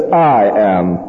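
"I" given full weight before "am"; emphasis on I. Shown as a demonstration. Preacher quoting Jesus' claim, weight on "I". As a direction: set "I" out firmly as the key word. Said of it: "with the emphasis on this word".

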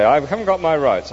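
a grumbling "I haven't GOT my rights"; indignant ghost. Acted. The ghost throws the spirit's words back, indignant.

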